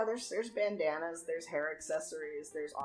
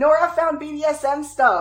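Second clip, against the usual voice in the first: excited, eager tone, in character; 9 semitones higher, 13 dB louder than usual. Voicing a character hopping over to a friend with news: excited in character. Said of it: "turn excitedly and hop over to you".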